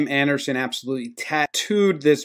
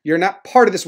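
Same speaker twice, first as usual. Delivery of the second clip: insistent Jose; 5 semitones higher than usual. Retold or imitated. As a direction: imitate a teammate ordering someone out of it. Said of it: "Jose's like".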